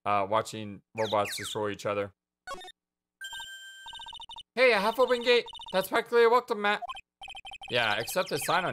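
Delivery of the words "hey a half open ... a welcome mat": put-on perky girl voice. Perky sidekick voice.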